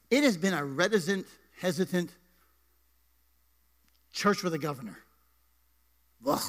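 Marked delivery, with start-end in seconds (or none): 6.3-6.4 frustrated groan. Real, not acted. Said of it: "Okay, I'm done".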